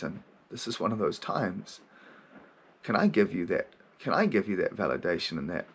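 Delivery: put-on tender self-talk, like calming a child; compassionate and loving. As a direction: soothe the little voice inside. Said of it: "compassionate and loving to that little voice".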